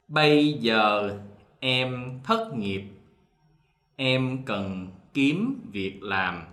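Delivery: slow southern reading, giờ said with a y sound; southern Vietnamese dialect. Shown as a demonstration. Teacher reads sentence two in southern Vietnamese. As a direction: read it slowly in the southern accent. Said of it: "so one more time".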